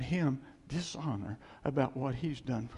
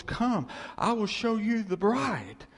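higher, slow proclaiming call; excited; 6 semitones higher, 3 dB louder than usual. Acted. Voice from heaven unveiling the bride, excited. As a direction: announce the bride with rising excitement. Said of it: "They're excited".

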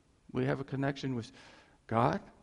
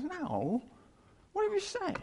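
God's voice; 4 dB quieter than usual. Retold or imitated. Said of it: "God goes".

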